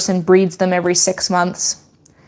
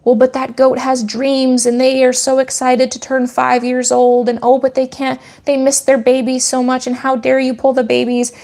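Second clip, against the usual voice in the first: lightly mocking, higher-pitched imagined protest; imitating sentimental objector; 5 semitones higher than usual. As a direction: voice a humanizing critic, pitched up. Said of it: "as we look at it through a lens in our human eyes of like".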